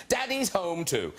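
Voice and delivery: slow, deliberate Daddy's Home Two; careful title. Shown as a demonstration. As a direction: spell out Daddy's Home Two slowly and clearly. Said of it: "I should at least get the name right".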